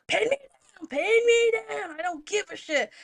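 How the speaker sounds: high-pitched defiant outburst; mad, defiant yell. Retold or imitated. Retelling her answer to her friend's warning, mad and defiant. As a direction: dare them to do it, voice shooting up. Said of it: "I'm so mad now".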